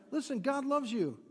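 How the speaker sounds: reassuring. Shown as a demonstration. Pastor showing how to assure a neighbour, reassuring. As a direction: assure them gently, meaning it. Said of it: "but just assure them".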